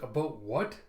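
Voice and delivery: indignant repeat with a rising tune; disbelieving comeback question; incredulous echo. Acted. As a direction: throw the question back in disbelief, rising at the end. She throws his question back.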